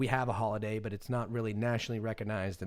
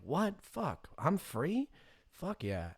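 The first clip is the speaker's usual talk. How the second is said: stunned then thrilled; 6 semitones higher, much slower than usual. Retold or imitated. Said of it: "they were like".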